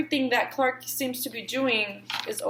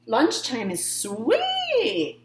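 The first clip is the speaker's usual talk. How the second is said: yelled; 3 semitones higher, much slower than usual. A narrator's reading. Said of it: "yelled Clark the shark".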